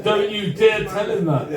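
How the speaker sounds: laughing through a playful warning; half-laughing, teasing don't you dare; laughing quote. Retold or imitated. Host quotes the lady, laughing.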